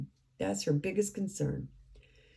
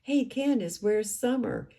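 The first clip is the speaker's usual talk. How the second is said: higher-pitched mock yell, without real volume; retold yell; 5 semitones higher than usual. Panel host trying to reach Candace on the phone, mild mock yell. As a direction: call out as if quoting someone's yell. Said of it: "Prayer Garden starts yelling so that Candace can hear her".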